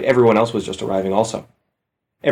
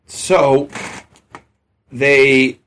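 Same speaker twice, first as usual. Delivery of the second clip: incredulous; 3 semitones higher than usual. Real, not acted. Incredulous about the aliens.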